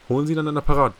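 rasped, commanding order from the boss; hoarse commanding order. A narrator's reading. Director orders the chief over the phone, hoarse. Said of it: "befahl Sato heiser".

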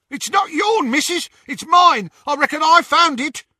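high, loud rough snatcher. A narrator's reading. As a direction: play a rough yokel thug. Snatcher voiced in narration.

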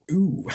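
hiccup with a small ooh. Real, not acted. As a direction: let out a tipsy hiccup. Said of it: "What was that noise?".

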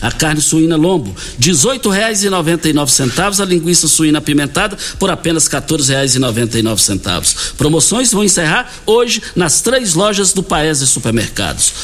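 punchy supermarket promo pitch; hard sell ad. Acted. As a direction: push the deals, sell hard. Host pushes supermarket promotions.

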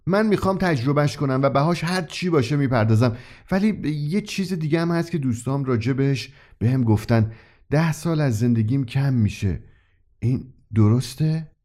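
earnest and firm, the last question slowed; steady, measured seriousness; rather serious. Acted. Wayne seriously accepting the price. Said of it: "با قدری جدیت گفت".

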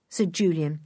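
usual speaking voice

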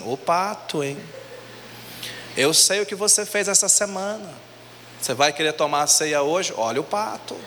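taunting devil. Retold or imitated. Devil accusing the worshipper.

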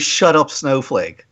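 slow, low, flat-out dismissive; deadpan quote. Retold or imitated. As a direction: drop it slowly and dryly. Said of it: "The thing they always preference it with".

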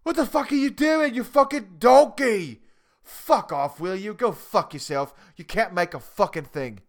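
hammed-up furious chef shouting down a cook; imitating a raging chef. Chef screaming at a contestant over scallops, mock fury. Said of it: "the fucking chef turns around and he goes".

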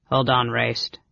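a touch of gentle restraint; mildly soothing big brother. Acted. Brother shielding the girl, gently. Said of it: "Caramon said gently".

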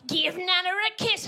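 slow, pushy urging; nagging mum. Retold or imitated. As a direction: nudge them like an insistent mum. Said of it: "your mum's always like".

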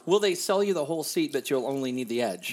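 announcer voice. Acted. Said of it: "announcer voice".

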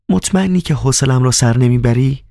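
lightly voiced coquette; Nisa's voice.

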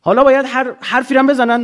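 ordinary talk, nothing marked

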